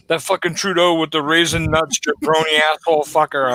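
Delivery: Iron Sheik impression. Host imitating the Iron Sheik's tweet about Trudeau, a hammed-up rant. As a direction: ham up the old wrestler's broken-English insults. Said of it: "and he was like".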